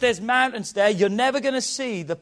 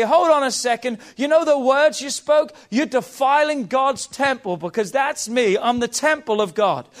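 loud, raised, fierce rebuke; defiant challenge; 4 semitones higher, 4 dB louder than usual. Acted. David defying the mocking giant Goliath, loud and fierce. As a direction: hurl it at the giant with full conviction.

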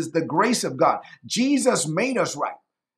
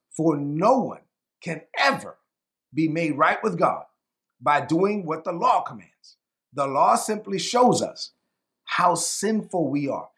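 slow, deliberate scripture reading with pauses between phrases; measured reading, letting each phrase land; real slow reading; 2 semitones lower than usual. Real, not acted. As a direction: read it phrase by phrase, unhurried. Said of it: "I'm gonna read this real slow".

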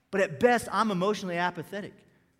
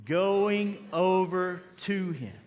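slower group reading; much slower than usual. Shown as a demonstration. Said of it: "Try that one more time".

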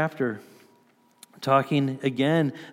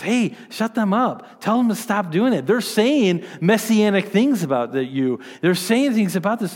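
higher-pitched imitation of indignant Pharisees; mock rebuke; 4 semitones higher than usual. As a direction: act out a scolding demand, voice lifted. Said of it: "Pharisees began to rebuke Jesus and says".

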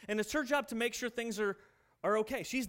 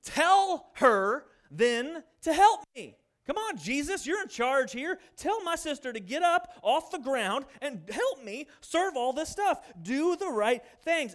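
higher, loud, whining demand; indignant complaint; 4 semitones higher, 4 dB louder, slower than usual. Acted. Martha complaining to Jesus that her sister won't help, indignant and loud. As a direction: insist you're being wronged. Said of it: "Notice the tone".

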